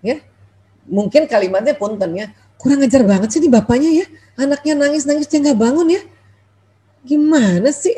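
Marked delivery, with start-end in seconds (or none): 2.6-7.9 higher-pitched indignant grumble, not shouted; mock cursing. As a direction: play a fed-up wife scolding her husband. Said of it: "sudah mulai memaki".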